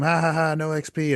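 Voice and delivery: retold gloating taunt with a fake laugh; mock taunting scream. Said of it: "and I would scream".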